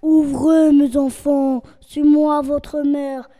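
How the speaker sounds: hoarse wolf voice. Acted. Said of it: "tu as la voix rauque".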